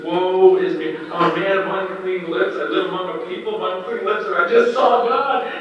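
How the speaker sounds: overwhelmed prophet crying out; acted alarm. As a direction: build to a high, loud pitch of awe. Isaiah's alarmed cry before God.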